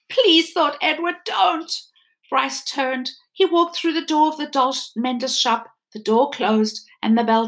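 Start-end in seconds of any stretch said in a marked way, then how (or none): 0.1-1.7 higher, louder desperate please; pleading. Acted. Edward pleading with Bryce not to go, desperate.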